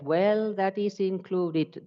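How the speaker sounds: a hammed-up institutional excuse; mock dismissive reply. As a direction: brush the concern aside in a high mock voice. Universities' dismissive reply quoted.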